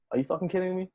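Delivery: high-pitched incredulous question; retold disbelief. Musician answers the gig offer, high-pitched retold disbelief. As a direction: replay the disbelief, pitched well up.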